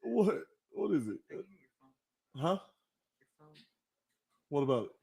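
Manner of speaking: ordinary talk, nothing marked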